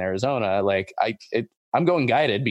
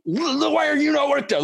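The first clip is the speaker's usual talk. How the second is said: high-pitched, incredulous retort; mock indignation. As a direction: ask it in squeaky, exaggerated disbelief. Indignant retort about being worked up.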